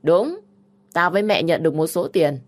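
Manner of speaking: put-on loud, brazen older sister; defiant admission. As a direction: admit taking money without shame.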